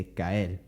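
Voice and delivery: caer said as cael; Puerto Rican l. Shown as a demonstration. Teacher imitating Puerto Rican speech. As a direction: end caer on l. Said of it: "they'd say".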